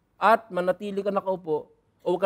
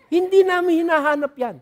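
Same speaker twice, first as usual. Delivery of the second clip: louder and higher, firm denial; emphatic; 8 semitones higher, 5 dB louder than usual. Shown as a demonstration. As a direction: stamp it out, no doubt. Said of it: "repeated louder". (mariin at malakas na pag-uulit)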